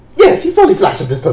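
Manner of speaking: loud, fast put-on British commentator accent. Commenting on a game match, fake British caster voice. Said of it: "in my extremely professional, not totally British, not fake at all voice".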